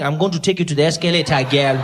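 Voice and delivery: low, quick smooth-talker voice; a guy chatting up a woman, in a smooth cheesy voice; smooth pickup line. Retold or imitated. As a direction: slide it out like a cheesy ladies' man. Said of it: "picked up women by saying".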